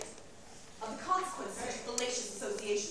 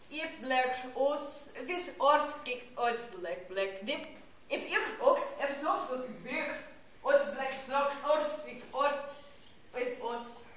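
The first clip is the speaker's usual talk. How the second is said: strange speech in short emphatic bursts; invented-tongue declamation; 3 semitones higher than usual. Acted. Seer describing her powers in a strange tongue, declaimed. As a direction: declaim the alien phrases in fragments.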